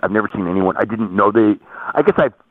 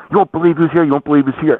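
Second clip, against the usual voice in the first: retelling a fan's excited call, higher and louder; 8 semitones higher, 4 dB louder than usual. Retold or imitated. Costco worker tells coworkers about Dave, excitedly. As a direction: play the thrilled Costco worker announcing a celebrity. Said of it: "So he's all excited".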